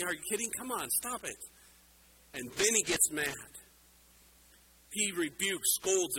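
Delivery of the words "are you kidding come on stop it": higher, softer incredulous scoff; God mocking the plotters, a higher, softer scoff. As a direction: scoff at them as if the whole thing is a joke. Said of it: "he's scoffing".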